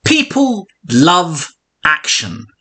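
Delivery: lightly posh documentary narration. Acted. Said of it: "my opening narration posh voice".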